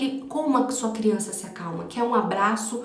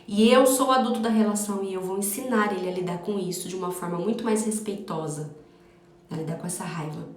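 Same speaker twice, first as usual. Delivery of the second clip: soothing self-talk. Shown as a demonstration. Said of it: "Acolhe sua criança e fala".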